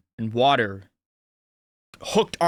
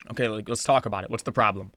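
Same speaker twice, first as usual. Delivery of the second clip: calm, lower voice, holding anger in; calm restraint; 4 semitones lower, 3 dB quieter, faster than usual. Retold or imitated. Speaker defusing an argument instead of punching, calm and restrained. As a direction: talk it out evenly and keep the lid on. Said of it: "I'm going to calm down verbally".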